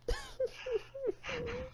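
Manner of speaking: high mock sobbing wail; hammed-up crying wail; fake wail. Host fake-wailing over rained-out races, mock crying. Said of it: "You're making me so sad".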